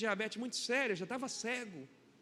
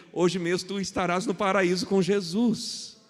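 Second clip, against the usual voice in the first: slow, loud scripture declaration; solemn proclamation; 3 semitones lower, 8 dB louder, slower than usual. Retold or imitated. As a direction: proclaim it like Christ's promise. Quoting Jesus, proclaiming. (proclamação solene, lenta e forte)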